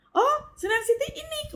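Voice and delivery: high, surprised uncle voice; uncle's reply. Retold or imitated. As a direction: lift it like a pleased old uncle.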